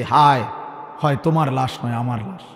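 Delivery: low, soft, sorrowful retelling; mild tearful lament. Retold or imitated. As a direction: lament quietly, as the weeping elder. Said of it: "চোখের পানি ফেলে বলছে". (নিচু স্বরে হালকা কান্নাভেজা আক্ষেপ)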